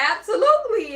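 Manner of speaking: high, laughing "absolutely"; laughing yes. Retold or imitated. Host mimicking contestant agreeing, laughing.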